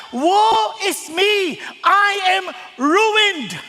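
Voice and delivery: dramatic, slow wail of ruin; anguished prophet's cry. Acted. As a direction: cry out woe, very slowly. Preacher acts Isaiah's cry of woe.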